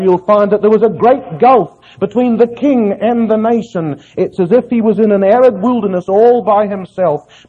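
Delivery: driving sermon cadence, clause upon clause; impassioned preaching. Real, not acted. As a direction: pile up each phrase like a fervent preacher. Preacher lists the nation's failings.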